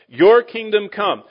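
high, loud and slow, weighing every word; solemn emphasis. Acted. Preacher lifts up the line from the Lord's Prayer, slow and loud.

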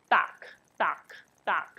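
duck with a buzzing voiced d. Shown as a demonstration. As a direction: feel the throat vibrate on the d of duck. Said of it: "这边会震动".

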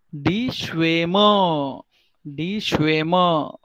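Schwämme with an "ay" vowel, drawn out to "shvay-muh"; careful pronunciation demo. Shown as a demonstration. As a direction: model Schwämme carefully, first vowel as long "ay". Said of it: "Please understand the pronunciation". (Schwämme में "ए" की लंबी ध्वनि, "श्वेमे")

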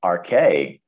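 R K with the pitch rising, then falling on K. Shown as a demonstration. Teacher showing a Greek circumflex, tone up and down. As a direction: bend the tone of "R K" up and down. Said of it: "it would go up and down".

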